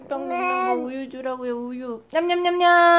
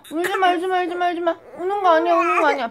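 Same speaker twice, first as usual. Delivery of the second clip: louder, higher soothing over crying; urgent soothing; 5 semitones higher, 5 dB louder, much faster than usual. Real, not acted. Mother hushing her crying baby, louder and higher.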